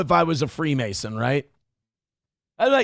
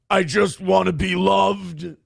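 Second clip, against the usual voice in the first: mock whine; 2 semitones higher, slower than usual. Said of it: "he was crying. And he goes".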